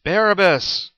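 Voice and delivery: loud, high shout; crowd shout. A narrator's reading. Crowd answers Pilate, shouting the name. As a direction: yell the name back at the governor. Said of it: "the crowd shouted back their reply".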